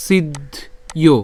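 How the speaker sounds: "সিদ্ধ", a pause, then "ইয়"; split pronunciation. Shown as a demonstration. Teacher repeats for the next word, split "সিদ্ধ ইয়". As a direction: break "সিদ্ধ ইয়" clearly into two parts. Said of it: "একই রকমভাবে পরেরটাও কি হবে?".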